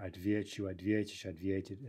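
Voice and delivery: Отвечу, ответишь, ответит all stressed on "ве"; stem stress. Shown as a demonstration. Teacher listing stem-stressed forms, Отвечу, ответишь, ответит stressed on ВЕ. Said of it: "That's stem stress".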